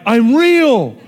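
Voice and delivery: loud high proclamation; mock booming God voice; mock divine shout. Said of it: "God would just shout to people".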